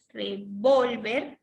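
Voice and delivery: revolver said very slowly with a marked stress; slowly spelled-out revolver; slow stressed demo. Shown as a demonstration. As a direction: stretch out revolver to show the stress. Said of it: "si lo escriben con tilde".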